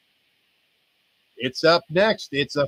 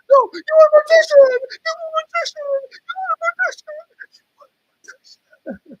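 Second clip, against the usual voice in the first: mock scream; 10 dB louder than usual. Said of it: "It's like".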